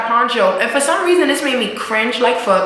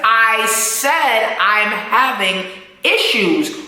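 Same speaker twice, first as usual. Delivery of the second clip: Tommy's warning; much slower than usual. Retold or imitated. Tommy losing patience with Pancho.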